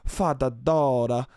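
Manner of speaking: lightly mocked nonsense syllables; string of gibberish, sinking and slowing at the end; imitated model gibberish. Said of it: "the way they just were like".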